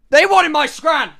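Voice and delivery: loud, slow, outraged cry; slow furious shout about stolen food; indignant outburst. Retold or imitated. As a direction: bellow it like they robbed you. Indignant punchline about the rats.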